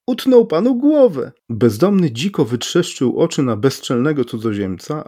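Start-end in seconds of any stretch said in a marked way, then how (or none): 0.1-1.3 high-pitched gleeful proclamation; ringing, delighted declaration; loud, joyful announcement. A narrator's reading. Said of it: "I głośno, radośnie oznajmił".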